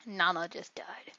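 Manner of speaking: slow whisper. Real, not acted. Gamer whispering that his teammate fell, slow whisper. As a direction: whisper the bad news slowly.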